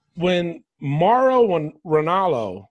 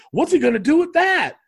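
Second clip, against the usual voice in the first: mocking commentator again; 10 semitones higher, 4 dB louder than usual. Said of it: "Michael Cole on commentary".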